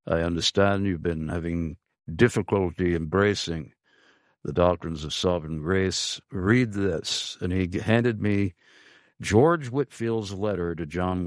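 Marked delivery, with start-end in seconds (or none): 0.1-7.4 lightly imitated British accent, a little low; deep British accent. Friend handing over a letter after church, light British accent. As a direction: quote him with a hint of deep British accent. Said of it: "in his deep British accent".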